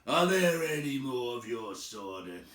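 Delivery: lightly voiced troll demand; menacing troll. Troll interrogating Bilbo, menacing. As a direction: lean in on the hobbit.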